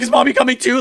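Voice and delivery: put-on high, small child's voice asking; a lightly mimicked little girl worried about mom; voicing the little daughter.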